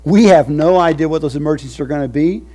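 full-force preaching. Acted. Preacher to his covenant people, full-force preaching. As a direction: lift it up and thunder it.

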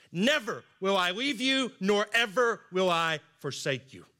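NEVER and EVER punched high and loud; emphatic promise. Retold or imitated. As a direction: proclaim it, hitting "Never" and "ever" hard, then easing on "forsake you". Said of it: "for even more emphasis".

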